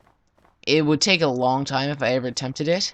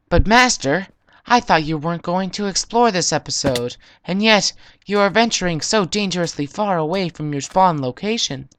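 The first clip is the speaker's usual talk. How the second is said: monotone robot; 3 semitones higher than usual. Pretend. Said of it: "you sound like a monotone robot".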